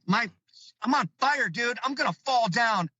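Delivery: high, panicky reliving of the chase; breathless mock panic, voice jumped high; retold panic. Panicked run from Sasquatch.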